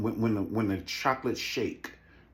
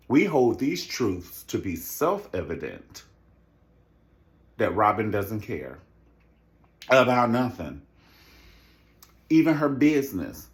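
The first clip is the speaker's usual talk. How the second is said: orator voice; 3 dB louder than usual. Retold or imitated. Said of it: "What did Martin Luther King?".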